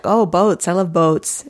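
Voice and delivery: put-on playful Canadian accent with boats stretched. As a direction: lightly imitate a Canadian guy loving boats. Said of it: "in his Canadian voice".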